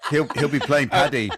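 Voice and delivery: high laughing words. Real, not acted. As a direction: laugh through the joke. Joke about dog suit.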